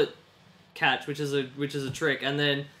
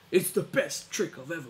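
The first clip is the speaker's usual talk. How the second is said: put-on American accent; 2 semitones higher than usual. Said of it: "'cause he's American".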